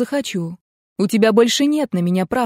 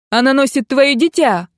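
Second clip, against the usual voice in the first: loud, high yell; 5 semitones higher, 4 dB louder than usual. A narrator's reading. Мэрдок кричит Коннеллу о ребёнке, громкий высокий вопль. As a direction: blurt it out at full voice. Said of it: "завопил Мэрдок".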